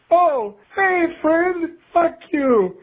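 high, cheery "Oh, hey, friend, fuck you"; mock rude greeting. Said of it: "You don't just say".

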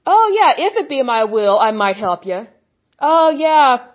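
offhand careless voice, hammed up; a lazy shrug of a deity; mocking indifferent God. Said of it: "a God that says".

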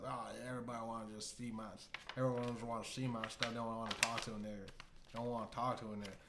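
put-on fast, slurred Southern accent. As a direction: rattle it off in a thick Southern accent. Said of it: "he has such a southern accent".

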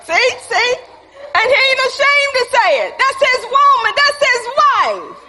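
rising excited praise; excited preaching. Real, not acted. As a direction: laugh it out with delight. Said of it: "He wasn't even ashamed to say that".

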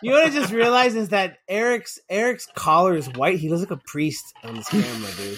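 tipsy slurred rambling. Real, not acted. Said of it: "I'm so drunk right now".

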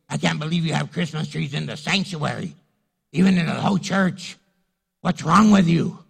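loud, scolding church critic; indignant complainer. Retold or imitated. Church critic scolding the pastor, loud indignant complaint. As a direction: lay into the pastor like an outraged member.

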